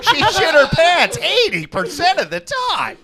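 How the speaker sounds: silly character voice. Pretend. Old man rant bit.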